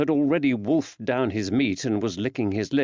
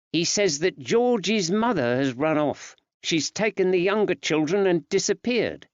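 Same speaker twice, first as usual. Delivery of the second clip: woman's voice; 5 semitones higher than usual. Acted. Betsy reporting news.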